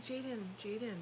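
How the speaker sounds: gentle, composed name-calling; calm parent. Retold or imitated. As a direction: settle an upset child. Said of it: "This is me being calm".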